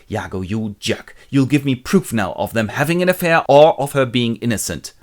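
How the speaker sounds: mildly angry demand, building slightly. Acted. Jealous husband demands proof from Iago, mildly angry. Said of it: "really angry because what Iago has said".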